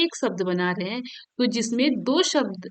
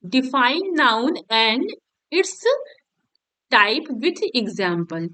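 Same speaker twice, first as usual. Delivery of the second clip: define noun and its type with example read very slowly, word by word; slow dictation; much slower than usual. Shown as a demonstration. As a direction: dictate each word slowly for students to copy. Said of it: "reading the question out slowly".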